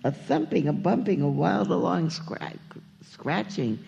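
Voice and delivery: lively, lilting read-aloud of rhyming verse; story narration. A narrator's reading. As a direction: read it like a picture book to children. Reads a children's story aloud.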